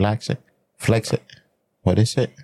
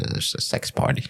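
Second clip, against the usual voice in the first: whispered aside; 6 dB quieter than usual. Real, not acted. Naughty confession aside.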